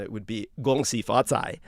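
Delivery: "Gong Xi Fa Cai" in Mandarin tones, xi stressed; Mandarin greeting. Shown as a demonstration. Host showing viewers the Mandarin greeting. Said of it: "just for all of you to, to hear it".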